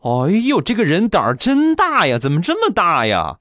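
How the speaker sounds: put-on bold young woman. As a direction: play the outspoken girl mocking the man. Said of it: "性格特别豪爽的妹子就说了".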